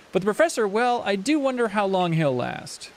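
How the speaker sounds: lilting, drawn-out musing; doubtful villager. Acted. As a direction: wonder theatrically about the professor's fate. Voices villager doubting the professor.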